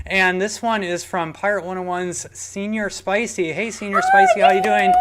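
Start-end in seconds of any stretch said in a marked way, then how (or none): 3.5-4.9 high, loud, bubbly hello; excited greeting. Real, not acted. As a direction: greet the fan with a big lift. Cheery shout-out greeting to tipper.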